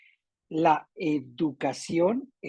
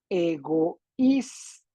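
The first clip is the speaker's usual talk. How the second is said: "egoísta" very slow, in syllables, ÍS stressed; much slower than usual. Shown as a demonstration. Teacher repeating the examples, "egoísta" slowly broken into syllables. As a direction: stretch "egoísta" as e-go-ÍS-ta. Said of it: "vamos a repetir".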